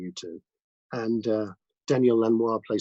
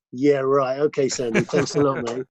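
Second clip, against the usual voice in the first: sceptical; 2 semitones higher, 4 dB louder than usual. Retold or imitated. Sceptical reply to manager's promise.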